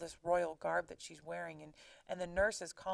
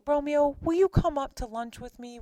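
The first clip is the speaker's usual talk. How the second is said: higher, louder call across the street; a playful hammed-up shout to Romeo; teasing call, pitched up and louder; mock yell; 6 semitones higher, 8 dB louder than usual. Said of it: "then he yells".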